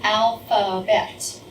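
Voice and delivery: "Alphabet" split slowly into its three syllables. Shown as a demonstration. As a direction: sound out "Alphabet" beat by beat. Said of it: "three syllables".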